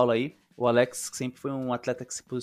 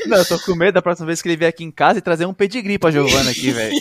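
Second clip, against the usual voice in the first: laughing; 6 semitones higher, 12 dB louder, faster than usual. Real, not acted. Joking about the dog gifts.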